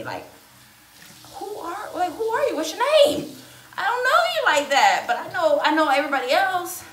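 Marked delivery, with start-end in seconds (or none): 1.3-6.8 high, loud sassy challenge; loud indignant retort. Retold or imitated. Retelling the awkward guest's question, loud and indignant. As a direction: fire back, offended and loud. Mocking the person's snub.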